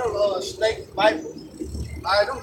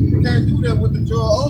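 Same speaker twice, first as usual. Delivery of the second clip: loud, emphatic; 8 dB louder than usual. Real, not acted. Fired-up preaching.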